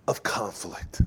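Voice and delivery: hushed emphatic close; whispered punchline. Real, not acted. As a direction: drop to a whisper on the last words. Sermon climax, whispered.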